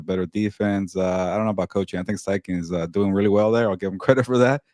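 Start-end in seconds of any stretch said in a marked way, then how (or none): 3.7-4.6 a forced little laugh mid-line; insincere laugh. Real, not acted. Giving the coach credit, with an insincere laugh. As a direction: chuckle through it without meaning it. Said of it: "He says with a insincere laugh".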